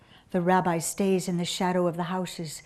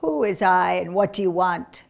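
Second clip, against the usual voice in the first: lightly voiced sick woman; a hint of a suspicious invalid; 3 semitones lower, 4 dB louder than usual. A narrator's reading. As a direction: question the stranger as an ailing woman. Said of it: "that of a sick Jewish woman".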